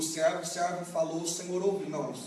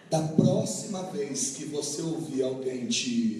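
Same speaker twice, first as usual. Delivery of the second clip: calm advice; 5 semitones lower, slower than usual. Acted. Eli calming the boy.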